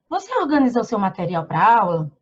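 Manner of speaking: "pra aula?" asked as a clear question, with a rising tune at the end. Shown as a demonstration. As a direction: show how the voice changes when asking. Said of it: "eu mudo o tom da voz". (entonação de pergunta, subindo no final)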